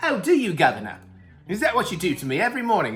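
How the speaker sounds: horrible, clumsy put-on English accent. Joking back and forth with another speaker, doing a horrible english accent. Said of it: "This is a horrible English accent".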